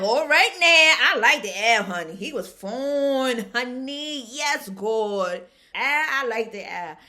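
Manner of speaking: loud, gushing approval of a handsome date; excited gushing. Retold or imitated. Cheering on the first date, loud and thrilled. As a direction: hype him up like a fan.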